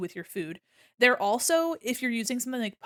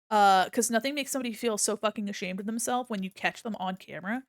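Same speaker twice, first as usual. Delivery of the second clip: ordinary delivery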